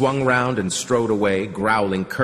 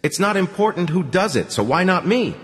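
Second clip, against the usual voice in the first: high-pitched, agitated insistence; heated argument; 11 semitones higher than usual. A narrator's reading. Man insists to the girl that he must do it, agitated. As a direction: argue back hotly, pitch raised.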